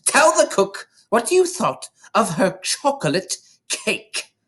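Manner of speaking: high booming command; big bossy boom across the hall; booming headmistress. Acted. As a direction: boom it down at the boy. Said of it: "the Trunchbull boomed".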